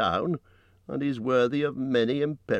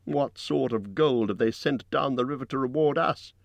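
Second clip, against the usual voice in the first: high-pitched rhetorical questioning; orator's raised, ringing appeal; loud and clear; 9 semitones higher than usual. A narrator's reading. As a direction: declaim each question high to the crowd. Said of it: "spoke very loud and clear".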